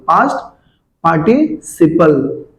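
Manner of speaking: पास्ट rising, a pause, then a very slow पार्टिसिपल; split slowly. Shown as a demonstration. Teacher to class, drawing out पार्टिसिपल slowly. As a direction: drag out पार्टिसिपल after a beat. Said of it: "पास्ट का आएगा पास्ट पार्टिसिपल".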